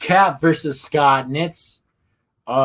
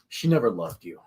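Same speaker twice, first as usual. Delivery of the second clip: dramatic quote; 7 semitones lower, 5 dB quieter than usual. Retold or imitated. Savouring a quoted dramatic line.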